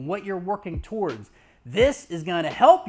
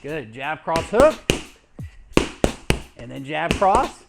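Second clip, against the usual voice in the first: coach calling punches. Shown as a demonstration. Calling punches during pad drill.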